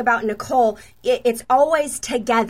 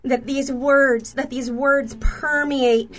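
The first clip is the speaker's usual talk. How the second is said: slow, hushed reading of a prophetic word; slow and deliberate prophetic read. Acted. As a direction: read it out slowly, as if the fire is falling now. Reads out a written prophetic word.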